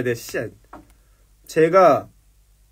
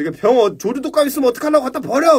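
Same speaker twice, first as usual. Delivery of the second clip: mock annoyed senior; 8 semitones higher, 4 dB louder than usual. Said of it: "막 이래서".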